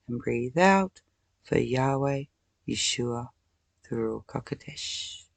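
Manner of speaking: slow, even chant of holy names; breathing meditation. Shown as a demonstration. Teaching viewers to breathe through anger, slow meditative chant. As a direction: guide the breath calmly.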